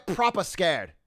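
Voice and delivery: proper scared in a put-on British accent. Shown as a demonstration. Streamer repeats the phrase in a light British accent. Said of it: "That was a good accent".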